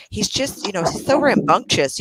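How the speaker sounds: put-on proper, understated complaint about a child; very proper parent. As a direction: keep up a polite game face. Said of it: "she's talking very proper about it".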